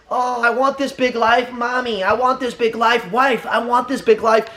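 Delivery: slow, whining mock pretender; drawn-out whine of a quitter who wants it easy; whiny pretender. Mocking a pretender, he whines slowly like a child. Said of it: "You know what a pretender is?".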